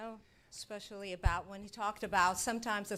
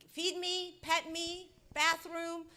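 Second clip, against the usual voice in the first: high, softer pet voice begging; voicing a pet; 9 semitones higher, 3 dB quieter, slower than usual. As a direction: speak as the needy pet. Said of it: "they just wanna be".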